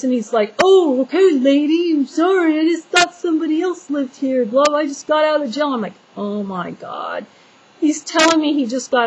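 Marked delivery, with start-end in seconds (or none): 0.6-5.7 high-pitched imitation of an apologetic intruder; intruder's hasty apology. Woman mimicking the trespasser she yelled at, mock apologetic. 6.2-7.2 slow, hushed disbelief; retold dismay. Woman hearing the trespasser was just in jail, dismayed.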